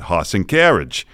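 Boston "Hoss and carriage" with no r sound, horse said as hoss; Boston accent. Retold or imitated. Student says Boston "Hoss and carriage" to his voice teacher. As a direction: drop the r in "Hoss" like a Boston kid. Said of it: "It's exactly what I'm saying".

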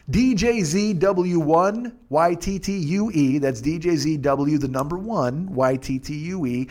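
slow, deliberate letters; slow spelling. Shown as a demonstration. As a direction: read each letter out clearly. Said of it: "repeating code slowly".

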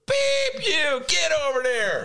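high, loud barked order; mock Bloomberg yell. Host as Bloomberg yelling at a friend at the door, high and loud. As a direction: snap at the late guest like a boss. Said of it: "If I were Bloomberg".

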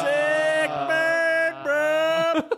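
high mocking bro voice. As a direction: toss it off like a bro. Mock reaction to Siri.

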